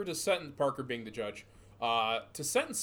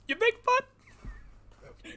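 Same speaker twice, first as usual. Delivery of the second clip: high, drawn-out mocking "you think, bud?"; sarcastic disbelief; much slower than usual. Real, not acted. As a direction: sneer it back, slow and incredulous. Mocking the headline.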